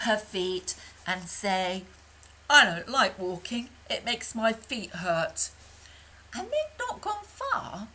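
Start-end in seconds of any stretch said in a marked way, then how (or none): 2.5-5.5 louder whiny complaint; loud moaning duck. Acted. Lucky Ducky rubbing her feet, loud whine. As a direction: wail about sore feet.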